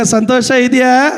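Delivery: ಇದೆಯಾ lifted as a call to answer; preacher calling out for a reply; prompting the congregation. Shown as a demonstration. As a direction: call it out to the back rows. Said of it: "ಹಿಂದೆ ಇರೋರೆಲ್ಲರೂ ಹೇಳ್ಬೇಕೀಗ".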